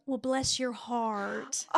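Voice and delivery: slow, drawn-out mock sweetness of a grandma; imitating Southern grandma. Granddaughter mimicking grandma's coded put-down, slow and knowing. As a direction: draw it out like a knowing Southern granny. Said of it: "she would do the".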